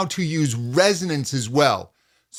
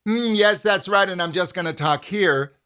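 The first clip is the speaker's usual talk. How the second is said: monotone; 4 semitones higher than usual. Shown as a demonstration. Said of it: "We don't want to talk on a monotone".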